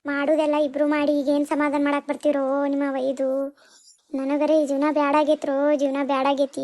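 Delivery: grief-stricken sing-song wailing; wailing lament. Acted. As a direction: wail the betrayal, stretching the last vowels.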